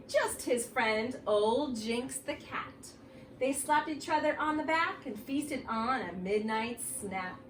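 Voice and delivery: spooky read-aloud for the class; reading to children. Acted. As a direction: draw the kids into an eerie story. Reads Halloween book aloud.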